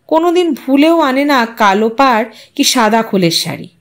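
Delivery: ordinary delivery, nothing marked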